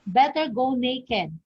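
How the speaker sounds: "Better go naked" as one complete phrase, then stop; juncture shift. Shown as a demonstration. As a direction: run "Better go naked" together, falling on "naked". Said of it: "How about in this?".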